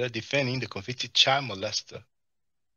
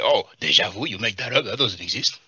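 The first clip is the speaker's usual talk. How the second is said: mock scoffing; 5 dB louder than usual. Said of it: "We ain't gonna say".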